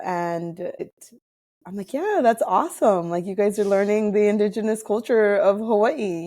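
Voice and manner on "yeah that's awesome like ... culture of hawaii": higher, bright mock-enthusiastic encouragement; excited praise. Encouraging international students learning Hawaiian culture, excited. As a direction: gush over their news, pitched up. Cheering on classmates, retold.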